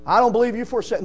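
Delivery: fast, chuckling "I don't believe you for a second"; laughing repeat. Shown as a demonstration. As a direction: toss it off with a laugh.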